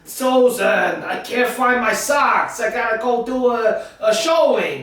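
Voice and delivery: husband calling out to his wife about the socks. Acted. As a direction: shout about the lost socks.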